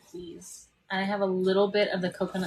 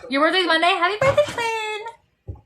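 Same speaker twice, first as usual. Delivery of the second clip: cheerful greeting; 12 semitones higher, 5 dB louder than usual. Real, not acted. Reading a viewer's birthday wish.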